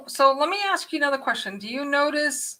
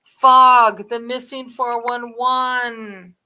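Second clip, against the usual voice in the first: excited shout; 4 dB louder, much slower than usual. Real, not acted. Sudden excited recall.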